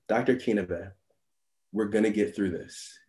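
low and soft, steady as a seasoned nurse; calm reassurance. Retold or imitated. Veteran nurse steadying a rookie doctor, softly reassuring. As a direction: settle a panicking colleague gently.

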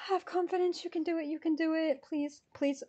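soft, breath-held encouragement; hushed pep talk. Real, not acted. Ticket buyer urging self on in the queue, hushed. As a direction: coax softly under your breath.

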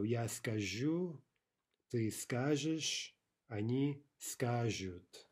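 скажу slowly stressed on the end, скажешь and скажут on the start; shifting stress. Shown as a demonstration. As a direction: move the weight from -жу back to ска- in скажу, скажешь, скажут. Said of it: "we have shifting stress".

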